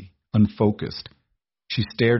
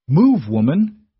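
higher, louder, slow roared order; roared command; 8 semitones higher, 6 dB louder, slower than usual. A narrator's reading. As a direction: bellow at the housekeeper to get out of the way. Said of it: "Arthur roared".

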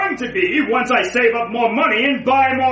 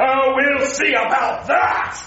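defiant shout; 3 semitones higher than usual. Acted. Villain threatens bank teller.

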